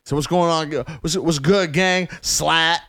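put-on high, gang talk kid; kid rapper voice. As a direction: imitate a little boy talking tough. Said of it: "video of this little white boy".

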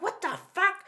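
high-pitched mock shock; retold shocked outcry. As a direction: act out a startled, indignant reaction. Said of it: "Sarah was like".

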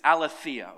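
"aletheia" said clearly as ah-LAY-thee-ah, each syllable laid out; Greek word aletheia. Shown as a demonstration. Preacher teaching the congregation the Greek word, clear demo. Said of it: "everybody say aletheia".

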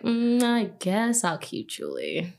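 slow, mock-grudging agreement; reluctant concession. Granddaughter gives in to grandmother about her name, mildly reluctant. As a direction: drag it out as if giving in.

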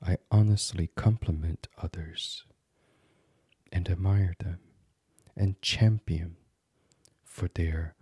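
calm but firm meditation voice, measured phrases; gently resolute affirmation, pausing between phrases; firm self-affirmation. Acted. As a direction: state each intention with steady conviction. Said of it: "So to say firmly to yourself".

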